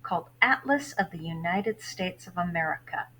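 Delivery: lively read-aloud of a novel for class; story narration. A narrator's reading. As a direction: read the chapter to your students, lively. Teacher reads novel aloud.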